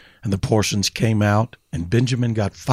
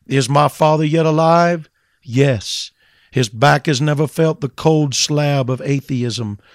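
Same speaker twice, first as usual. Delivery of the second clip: full-force preaching; 3 semitones higher than usual. Acted. Preacher proclaiming the living Father to sinners, full force. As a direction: preach it hard, lifting toward the peak.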